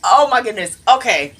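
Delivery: high, shocked gasp of a phrase; stunned. Real, not acted. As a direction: react to a big twist. Reacts to reveal after long pause.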